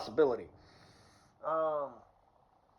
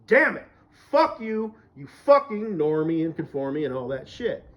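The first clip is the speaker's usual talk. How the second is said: angry cursing; 4 dB louder than usual. Real, not acted. Cursing at normies.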